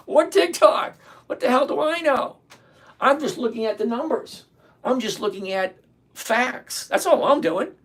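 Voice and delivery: high, laughing self-mockery; giggling put-down of his own authority; laughing at himself. Real, not acted. Self-mocking laugh at own advice.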